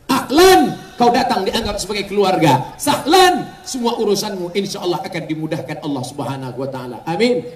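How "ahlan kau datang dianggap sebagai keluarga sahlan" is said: emphatic preaching. Acted. Explaining greeting with emphasis.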